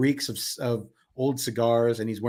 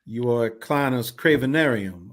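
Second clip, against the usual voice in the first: slightly theatrical, measured announcement; lightly voiced carnival man. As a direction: introduce the carnival with mild ceremony. Voices a game character.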